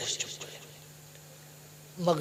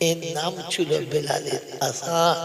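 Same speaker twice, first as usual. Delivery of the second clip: slow, drawn-out, rising ending; slow preacher's refrain; solemn emphasis. Real, not acted. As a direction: stretch it out, lifting at the end. Preacher repeats solemn closing line.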